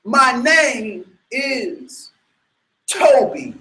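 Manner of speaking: very slow, mild defeated answer; broken surrender. Retold or imitated. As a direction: give in, spirit broken. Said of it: "And he says".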